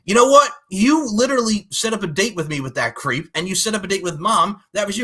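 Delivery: mock telling-off, bursting in high and loud; indignant retort. Sister blaming brother for the date, mock indignant. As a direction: act out an accusing comeback, easing after the first words.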